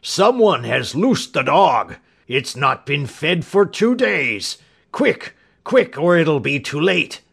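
drawn-out alarm, then high urgent cries; panicked cry. A narrator's reading. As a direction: cry the alarm in a stricken character voice. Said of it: "he cried".

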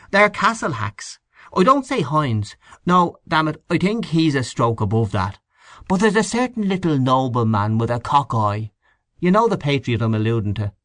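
lightly acted conspiratorial character; insistent Henchy. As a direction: press the accusation with lively emphasis.

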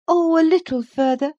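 put-on a girl coaxing her nurse onward; eager young Cathy. A narrator's reading. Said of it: "was her answer continually".

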